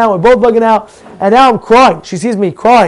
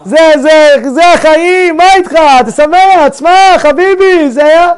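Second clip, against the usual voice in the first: high, loud Israeli driver rattling off Hebrew; Israeli cab driver; 9 semitones higher, 6 dB louder than usual. Retold or imitated. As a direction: do a brash Tel Aviv cabbie cheering him up.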